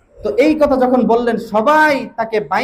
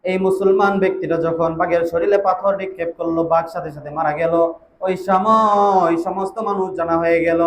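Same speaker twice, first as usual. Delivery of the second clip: melodic preaching. Real, not acted. Melodic sermon storytelling.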